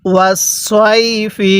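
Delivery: slow ওয়াস সই ফি with a stretched সই; read-along recitation. Shown as a demonstration. Teacher leads learners reading aloud, slow measured ওয়াস সই ফি. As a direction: hold সই, then land evenly on ফি. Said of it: "পড়ুন".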